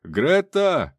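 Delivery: high, loud desperate call; wild yell. A narrator's reading. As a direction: scream the dog's name. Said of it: "заорал М Ч С ник дурным голосом".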